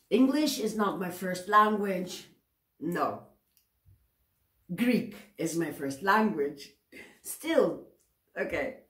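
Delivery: laughing as she excuses herself; amused, self-deprecating laugh; laughing apology. Real, not acted. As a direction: say it through a giggle, self-mocking. Laughing at her own slip.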